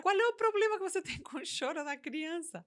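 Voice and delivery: incredulous question breaking into a laugh; laughing disbelief. Real, not acted. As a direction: laugh at how absurd it is. Same question asked twice.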